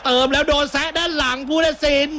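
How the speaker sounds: high, urgent call of a penalty claim; excited play-by-play. Real, not acted. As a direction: ride the rising protest. Live call of a foul claim.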